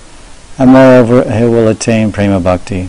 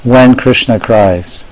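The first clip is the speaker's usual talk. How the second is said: slow, deliberate title read; lecture title; slower than usual. Shown as a demonstration. Teacher suggesting a title for yesterday's lecture, slow title read. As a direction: announce "When Krishna cries" slowly as one phrase. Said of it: "title a lecture".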